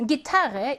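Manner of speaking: 기타르 with 타 stressed; 기타르, accent on the second syllable 타. Shown as a demonstration. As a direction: hit the middle 타 in 기타르. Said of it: "이 음절 강세어입니다".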